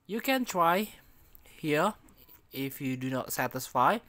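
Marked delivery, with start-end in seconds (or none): 0.1-1.9 robot voice filter on a call. Shown as a demonstration. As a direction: voice changer app robot effect. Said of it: "let's try the robot voice".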